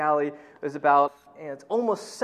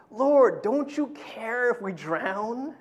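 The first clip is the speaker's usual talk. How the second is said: tag; 5 semitones higher, much slower than usual. Retold or imitated. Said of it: "someone was saying".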